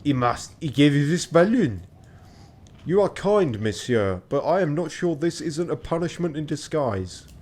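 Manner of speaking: put-on light French-accented young gentleman; politely wry, with a touch of French. Character dialogue, French accent.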